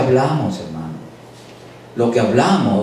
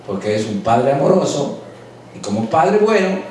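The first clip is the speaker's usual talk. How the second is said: softer, lower heartfelt sermon voice; gentle preaching; 4 semitones lower, 3 dB quieter than usual. Acted. Pastor tenderly counseling his congregation, softer and lower. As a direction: ease down and speak tenderly to the flock.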